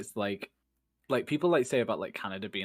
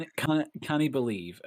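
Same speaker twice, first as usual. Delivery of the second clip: mock Scottish accent, a little raised; lightly pushed Scottish accent; 4 semitones higher than usual. Shown as a demonstration. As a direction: put on Scottish for a joke opener. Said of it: "you sound like you're saying it with a Scottish accent".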